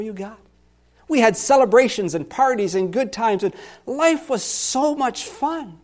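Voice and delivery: fond memory of happy days that sinks into gloom; wistful, then despairing. Acted. Pastor reliving happier Sundays in the psalm, wistful then downcast. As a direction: remember the joy, then let it crush you. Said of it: "a dramatic reading of this psalm".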